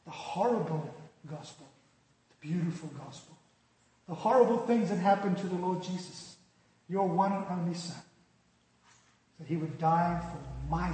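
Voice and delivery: measured, earnest pastoral prayer; subdued prayer with reverent pauses; closing prayer. Real, not acted. Let's pray.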